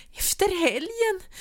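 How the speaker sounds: "Efter helgen" cried out very high and loud, slowly, with a sob; crying outburst. A narrator's reading. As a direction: throw "helgen" back at him sobbing. Wife echoes in disbelief.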